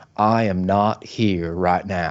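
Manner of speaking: very slow, measured, deliberate delivery of every word. Retelling an impressionist's bit about a shameless liar: Bill Clinton voice. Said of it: "he does an impression of Bill Clinton".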